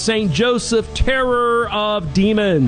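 measured priestly blessing, each phrase set apart; solemn blessing. Acted. Priest blessing the radio listeners at show's end, solemn and measured. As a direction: bless the listeners like a closing benediction.

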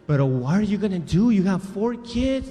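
worried woman. Retold or imitated. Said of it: "Una señora así".

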